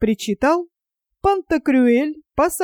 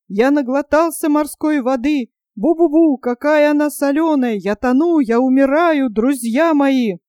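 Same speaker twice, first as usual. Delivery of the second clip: weeping wail; 3 semitones higher than usual. Acted. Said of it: "плакал Панурк".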